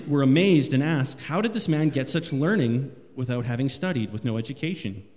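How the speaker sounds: preacher reading the Gospel aloud to the church; scripture reading. Acted. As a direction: proclaim the passage to the congregation.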